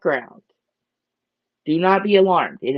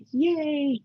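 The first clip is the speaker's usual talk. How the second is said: happy fish voice; 11 semitones higher, 6 dB quieter than usual. Pretend. She's like.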